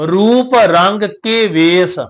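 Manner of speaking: slow, measured recitation of the verse; scripture recitation. Shown as a demonstration. Teacher reciting Gurbani to the sangat, slow and measured. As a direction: intone the line with care.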